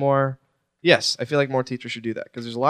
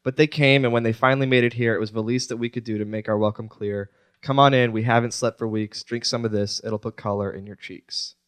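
even, measured reading of lyrics; recited lyrics; 3 semitones lower, 3 dB quieter than usual. Acted. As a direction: read it out like a poem, evenly.

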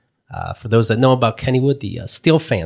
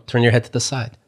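level, unhurried retold advice; calm instruction; faster than usual. Brother tells queasy mom what to do, calm. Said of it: "He was so calm".

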